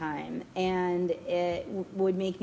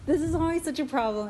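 laughing; 8 semitones higher, faster than usual. Real, not acted. Cracking up over the joke.

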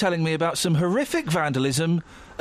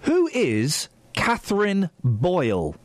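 repeating to voice assistant; slower than usual. Real, not acted. Asking Siri slowly.

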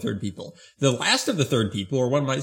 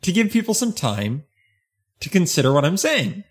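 William Shatner; 3 semitones higher than usual. Acted. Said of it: "stop talking like William Shatner".

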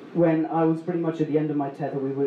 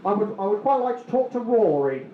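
imitating irate caller; 4 semitones higher than usual. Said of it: "he goes nuclear. He's like".

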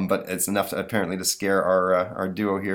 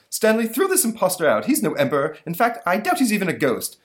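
high, loud, furious monster; angry monster voice; 11 semitones higher, 5 dB louder than usual. Acted. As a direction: demand it in an enraged squeak. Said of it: "this enrages the monster".

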